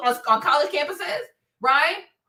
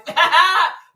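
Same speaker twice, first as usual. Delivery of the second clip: loud cackle; 3 semitones higher, 6 dB louder than usual. Real, not acted. Big laugh after alive.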